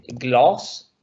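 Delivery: gloss with a long open O; long vowel. Shown as a demonstration. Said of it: "es la pronunciación".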